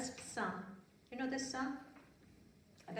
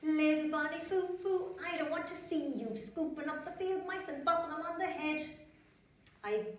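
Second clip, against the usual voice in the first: fairy voice; 6 semitones higher than usual. Acted. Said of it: "and she said".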